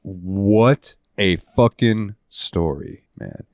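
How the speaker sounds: very slow, drawn-out awe; moved awe. Retold or imitated. Host recalling the game's tearful ending, slow moved awe. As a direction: stretch each word as if overwhelmed. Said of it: "I had tears in my eyes".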